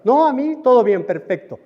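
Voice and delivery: loud, high, dismissive reassurance; acted patient insisting all is fine, voice jumping up; breezy patient denial. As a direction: brush the doctor off emphatically. Acted patient brushes off doctor's question.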